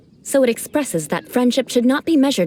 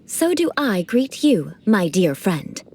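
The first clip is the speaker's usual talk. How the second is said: aristocratic greeting demo. Shown as a demonstration. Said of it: "allow me to demonstrate".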